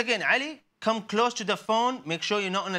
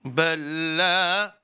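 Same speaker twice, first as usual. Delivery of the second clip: staccato; 4 dB louder, much slower than usual. Shown as a demonstration. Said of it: "One word at a time".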